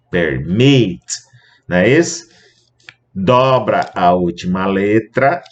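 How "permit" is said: Permit stressed on the second syllable, per-MIT; stress on last syllable. Shown as a demonstration. Teacher showing students where the stress falls in Permit, stressed on MIT. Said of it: "A sílaba tônica é aqui".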